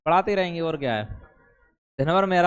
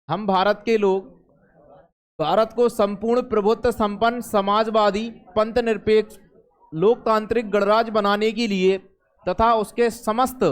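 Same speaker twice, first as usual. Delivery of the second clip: measured recitation of a constitutional preamble; formal reading aloud; 4 semitones higher than usual. Acted. Teacher reciting the preamble to students, formal reading aloud. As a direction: read it out phrase by phrase, with pauses.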